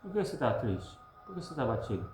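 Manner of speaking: hushed, sad inner voice; inner questioning. Acted. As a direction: ask your own soul quietly why it grieves. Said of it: "Ele questiona e responde a si mesmo".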